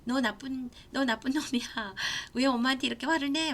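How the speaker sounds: quick mock scolding of a son; angry scolding. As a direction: snap at him in mock anger. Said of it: "막 이렇게 같이 화를 낸 게 아니라". (아들을 나무라는 흉내 낸 화난 말투)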